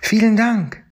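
very high, joyful little-dinosaur cheer; calling out happily. Acted. The freed Triceratops cheers at its rescuers, very high and joyful. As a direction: shout your freedom in a tiny high voice.

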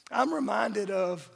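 ordinary delivery

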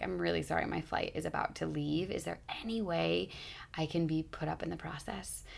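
soft, apologetic plea, last words unvoiced; a quiet, apologetic plea to the airline worker; polite apology. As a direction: ask politely, dropping to a whisper. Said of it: "not from a sense of urgency".

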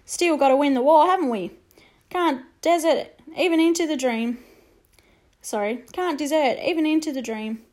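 chirpy soldier making light of the war; cheerful soldier. Acted. Soldier to the boy, cheerful and brisk. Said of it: "said the soldier cheerfully".

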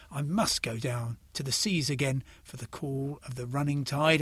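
measured, unhurried poem recital; poem reading. Acted. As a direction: let the sea lines roll gently. Reads Sea Fever aloud.

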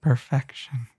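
overly emotional single word; hammed-up heartfelt delivery; mock emotional. Shown as a demonstration. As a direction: say it like it moves you deeply. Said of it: "I'm gonna say it with more emotion".

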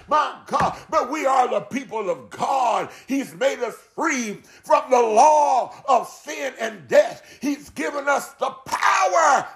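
preacher getting fervently stirred up. Real, not acted. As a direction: let the sermon carry you away, ringing out key words. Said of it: "I didn't mean to get stirred up like this".

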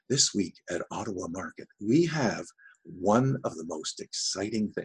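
announcer lilt on "Ottawa Market" and "most exciting", rising and falling; up-and-down intonation. Shown as a demonstration. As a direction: swing the tune up and down through "This week at Ottawa Market". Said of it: "and it's up and down, up and down, intonations".

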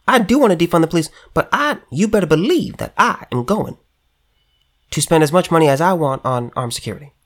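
a lightly voiced mocking Cori Bush; Cori Bush impersonation. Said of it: "my best Cori Bush impersonation".

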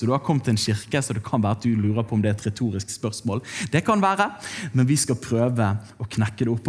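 ordinary talk

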